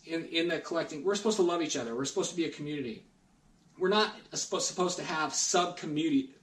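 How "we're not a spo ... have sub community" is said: choking slightly on spit. Real, not acted. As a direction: speak through a bit of choking. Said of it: "I was choking on my spit".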